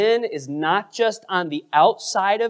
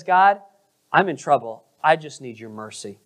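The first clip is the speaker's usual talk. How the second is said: understated begging for mercy, falling away; humble, desperate plea; 4 semitones lower than usual. Acted. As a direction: call on God, then drop to a humble murmur. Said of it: "He's desperate".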